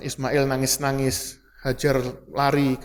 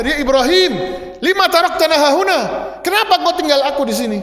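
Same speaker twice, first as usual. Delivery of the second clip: desperate calling out; 10 semitones higher, 5 dB louder than usual. Acted. Hajar chasing and calling Ibrahim.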